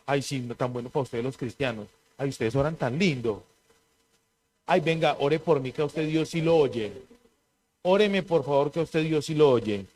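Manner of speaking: gently mock someone begging for prayer; mock pleading. Preacher imitates a bystander asking for prayer, softly mocking. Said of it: "gente que dice eso".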